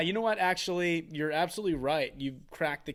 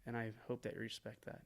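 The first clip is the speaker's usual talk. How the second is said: mock earnest confession; 4 semitones lower, 8 dB quieter than usual. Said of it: "literally just being like".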